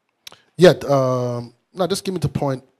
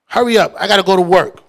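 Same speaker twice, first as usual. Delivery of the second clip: fed-up wife; 4 semitones higher, 7 dB louder than usual. Retold or imitated. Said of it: "she's like".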